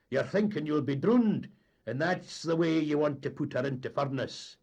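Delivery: mock the mate's fear; blustering captain. A narrator's reading. Captain taunting the mate about fear, loud and scoffing.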